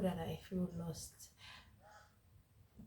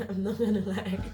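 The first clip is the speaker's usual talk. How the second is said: laughing; 7 dB louder than usual. Real, not acted. Laugh heard on line.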